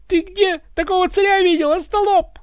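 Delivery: high, loud scolding shout; yelling. A narrator's reading. Tsar berates the thick guard, yelling. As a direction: bawl them out at high pitch. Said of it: "подключился к Ивану и сам царь".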